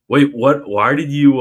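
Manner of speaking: sudden high, loud "wait, what?"; startled. Real, not acted. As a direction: caught off guard by the super chat, blurt it out. Startled reading a super chat.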